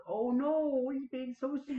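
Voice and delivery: high mock pity, pouting; mock sympathetic. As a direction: tease her with a pouty whine. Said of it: "I'd be like".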